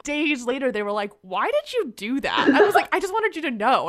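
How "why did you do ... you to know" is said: laughing. Real, not acted. Retold exchange, speaker laughs.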